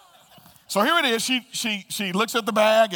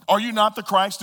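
sarcastic; 2 semitones higher, 4 dB louder than usual. Acted. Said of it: "it drips with sarcasm".

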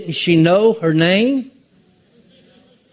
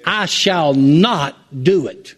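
"shall not" said slowly and deliberately; slow down and lean on "shall not"; firm refusal; slower than usual. Shown as a demonstration. Jesus refusing under pressure, slow and firm. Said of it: "Shall not is a strong words".

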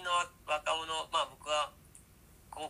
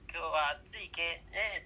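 dialect demo; 2 semitones higher, slower than usual. Shown as a demonstration. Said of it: "っていう風に".

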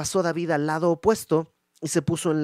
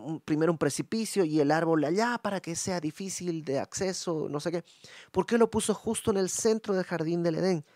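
higher, wondering voice of a doubter; puzzled questioner; 4 semitones higher than usual. Retold or imitated. Voicing a skeptic to the congregation, higher and wondering.

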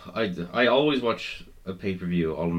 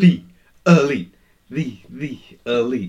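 mock announcer; 3 semitones higher, 8 dB louder, slower than usual. Mimicking entrance call.

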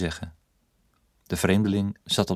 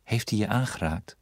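gentle repeat. Acted. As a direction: ask it again tenderly, hands on her shoulders. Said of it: "legde voorzichtig zijn handen". (zacht en voorzichtig herhaald)

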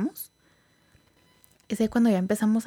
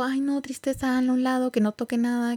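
mock alarm; 5 semitones higher than usual. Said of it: "todos tipo".

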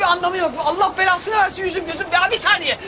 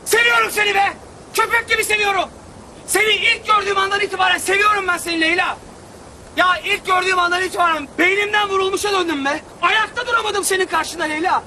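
shouted declaration. Acted. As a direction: shout your love across the street. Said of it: "Ne bağırıp duruyorsun?". (sokak ortasında bağırarak aşk ilanı)

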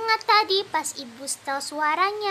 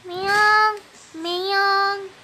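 cat meow; 2 semitones higher than usual. Pretend. Girl answers mother's question with a cat's meow. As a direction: meow like a kitten. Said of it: "Memangnya suara kucing gimana".

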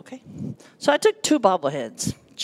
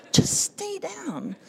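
laughing, slow repeat; 10 semitones higher, 3 dB quieter, much slower than usual. Retold or imitated. Friend repeats, amused.

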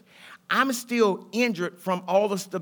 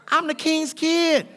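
proud declaration; 7 semitones higher, slower than usual. Acted. Boastful declaration, slow.

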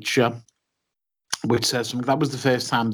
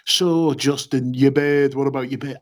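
mock Yorkshire accent; 3 semitones higher than usual. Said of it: "I can't do a Yorkshire accent".

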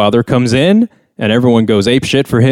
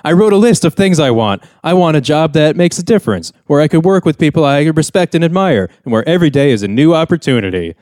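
lightly voiced earnest recruit, higher pitch; recruiting-ad earnestness; 5 semitones higher than usual. Son telling dad his dream, mock recruiting-ad earnestness. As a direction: recite it like a mild mock army ad. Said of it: "army recruiting commercial".

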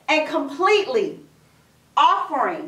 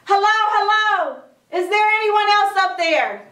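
mock yell; 5 semitones higher than usual. Jack wanting someone other than God, mild mock yell. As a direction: call up high for another rescuer. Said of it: "he yelled back up".

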